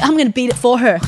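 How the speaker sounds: retold prayer cry, pushed a little; fervent resolve. Fervent vow while praying.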